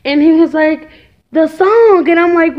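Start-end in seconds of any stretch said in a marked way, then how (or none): 1.3-2.1 high, loud mock wail; hammed-up tearful answer; imitating tearful child. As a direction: play a little boy upset through tears. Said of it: "busted out in these tears".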